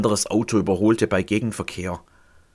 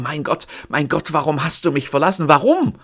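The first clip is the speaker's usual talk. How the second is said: tormented, pressed out; 4 semitones higher than usual. Acted. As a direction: press the words out in agony. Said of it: "Gequält presst er die Worte durch".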